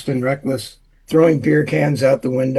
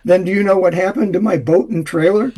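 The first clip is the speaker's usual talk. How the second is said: upset; 4 semitones higher than usual. Acted. Upset driver delivers joke punchline.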